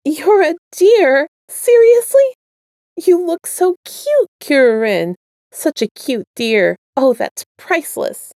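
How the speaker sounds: can't stop laughing at the cute deer; laughing in disbelief. Acted. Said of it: "he was laughing so hard".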